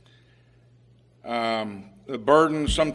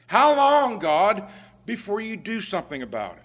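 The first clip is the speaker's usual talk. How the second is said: exasperated plea; 4 semitones higher than usual. Retold or imitated. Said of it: "So he's saying".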